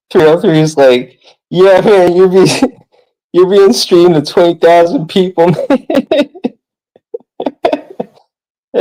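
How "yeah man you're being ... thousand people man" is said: retelling the line while laughing; laughing through a quote. Retold or imitated. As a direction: quote broken up by giggles. Quoting a streamer through laughter.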